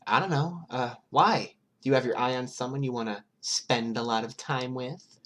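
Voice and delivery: put-on high, playful girl's voice; Toga's voice. A narrator's reading. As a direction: pitch her up high and teasing. Toga's voice in the read story.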